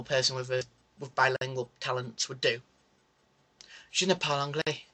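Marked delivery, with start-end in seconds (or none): 3.9-4.9 fake French. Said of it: "with me speaking French".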